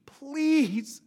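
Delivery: pleading. Shown as a demonstration. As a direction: beg them to listen. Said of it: "urge means to beg and plead".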